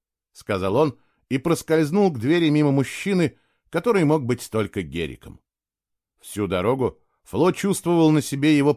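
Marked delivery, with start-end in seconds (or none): none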